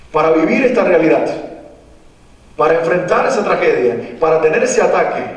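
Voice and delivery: mocking preachy praise of an anxiety attack as a blessing; mock cheerful praise. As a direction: sell the tragedy as a gift, tongue in cheek. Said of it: "Y le estamos diciendo".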